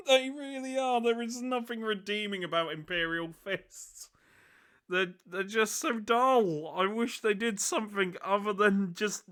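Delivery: exasperated high-pitched rant; loud, disgusted griping; scathing critique. Real, not acted. Ranting about boring Imperial Fists.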